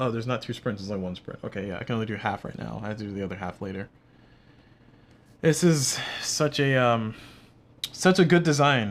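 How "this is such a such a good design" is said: slow, heavy sarcasm, full of spite. Complaining about a game's movement rules: very sarcastic. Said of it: "I say very, very, very sarcastically".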